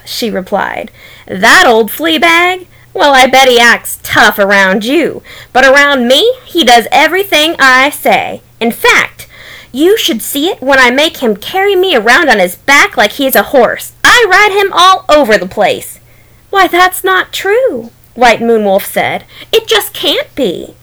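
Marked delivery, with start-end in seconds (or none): 1.2-16.0 boastful. Acted. Rabbit bragging to wolf. 16.5-20.8 disbelieving. Acted. Wolf disbelieving claim.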